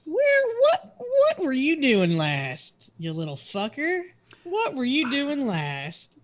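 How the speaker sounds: high, loud shouting voice; excited yelling. Acted. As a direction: yell it up high and fast. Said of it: "Now do that in the rock voice".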